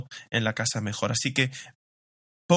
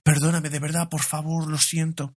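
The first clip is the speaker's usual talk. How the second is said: lightly voiced child's earnest apology; mild, pleading mock apology; imitated contrition; 3 semitones higher than usual. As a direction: imitate a remorseful daughter pleading, a touch higher. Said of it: "la contrición del corazón de mi hija".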